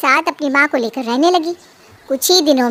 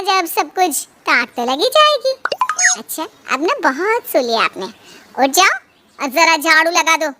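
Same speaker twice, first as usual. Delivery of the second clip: put-on sneering, bossy young wife, voice pitched up; taunting daughter-in-law. Prema taunts Sarita while making her sweep, mocking voice. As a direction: rouse her with mock politeness, then jeer.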